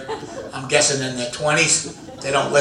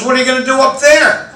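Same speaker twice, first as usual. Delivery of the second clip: suspicious wife; 8 semitones higher, 4 dB louder than usual. Retold or imitated. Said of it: "She goes".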